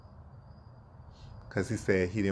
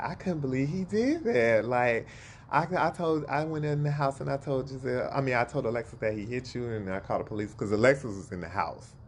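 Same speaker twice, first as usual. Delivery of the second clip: higher, quick gossipy retelling; mocking Giselle; 4 semitones higher, faster than usual. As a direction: lightly play her excited gossip.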